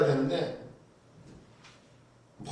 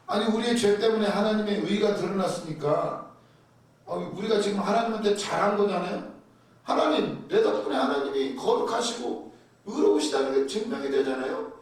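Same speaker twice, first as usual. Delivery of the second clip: imitating smug people bargaining with God, lightly voiced; smug entitled plea. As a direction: play a cocky sinner demanding a reward from God. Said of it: "이렇게 말하는 거예요".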